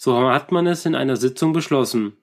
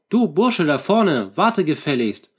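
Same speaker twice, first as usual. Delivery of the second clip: higher, raised voice calling ahead; loud call; 4 semitones higher than usual. Acted. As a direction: call out sharply to the stranger in front. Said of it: "sagte er laut".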